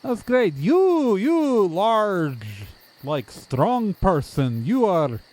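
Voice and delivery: stilted, oddly friendly local; overeager odd townsperson. Acted. Townsperson asking the visitors their names, oddly eager. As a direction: lurch from eager questions into admiring flattery.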